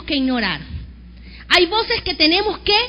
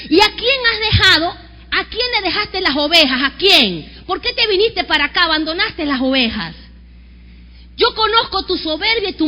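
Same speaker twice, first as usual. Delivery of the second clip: angry brother's rebuke. Acted. Eliab rebukes David for leaving the sheep, angry. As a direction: scold the younger brother as if he ran off. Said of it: "se encendió en ira".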